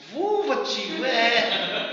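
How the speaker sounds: put-on high, delighted kid repeating "Vulva"; delighted child. Niece happily repeating "Vulva" to her uncle, high and delighted. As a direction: chirp "Vulva" like an enchanted niece. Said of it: "ficou encantado".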